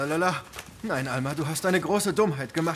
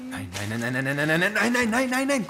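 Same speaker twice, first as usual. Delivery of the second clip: escalating no, louder and higher; rising nos; 6 semitones higher, 4 dB louder than usual. Real, not acted. Mother stops child messing paint. (Nein, sich steigernd bis laut und hoch)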